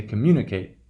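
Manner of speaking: communicate with an unreduced "kate" ending; long A in communicate. Shown as a demonstration. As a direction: keep the last syllable of communicate a full "ate". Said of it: "we hear that long value".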